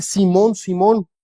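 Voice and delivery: caring, not judging; pastoral tone. Retold or imitated. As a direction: call the name gently, like a shepherd. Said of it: "Es más un tono de un pastor".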